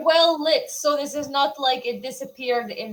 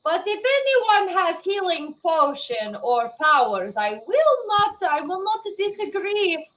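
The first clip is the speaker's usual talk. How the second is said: Skull's voice. Acted. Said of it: "Skull makes comment of".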